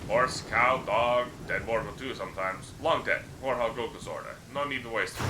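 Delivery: lightly voiced simple-minded troll, pitched a bit up; a hint of a friendly, dim troll boasting; rough troll voice. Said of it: "The troll's voice is rough and gravelly".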